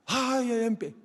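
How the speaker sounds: put-on crybaby "ay, ay"; mock wailing. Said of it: "forma la llorona".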